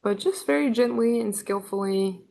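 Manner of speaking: unhurried instructions with long pauses between phrases; measured meditation-leader delivery; guided meditation. Real, not acted. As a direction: guide listeners gently into stillness, leaving space after each line.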